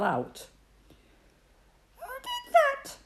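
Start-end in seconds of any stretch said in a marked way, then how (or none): 2.0-3.0 crossly. Acted. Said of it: "asked the squirrel crossly".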